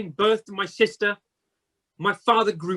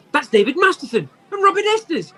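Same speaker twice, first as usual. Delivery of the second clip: high, half-laughing, half-crying; delighted tears at old friends; laughing through tears; 8 semitones higher than usual. Acted. Scrooge recognises his old schoolmates.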